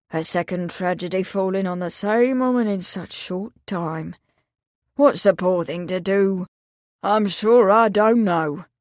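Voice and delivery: a touch of helpless sorrow; sadly. Acted. Old Willie lamenting for Agnes, mournful. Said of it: "old Willie said sadly".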